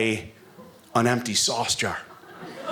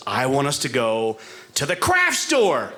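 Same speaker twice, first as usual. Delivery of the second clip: slow deadpan wife; slower than usual. Retold or imitated. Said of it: "And she goes".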